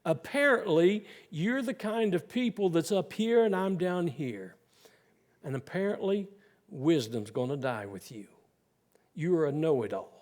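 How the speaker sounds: dry, mocking retort; sarcastic. Preacher voicing Job mocking his accusers, sarcastic. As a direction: throw their words back with sarcasm. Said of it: "he very sarcastically says".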